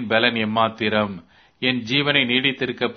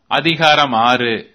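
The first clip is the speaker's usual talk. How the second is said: chapter heading; 5 dB louder, slower than usual. Shown as a demonstration. Chapter number announced.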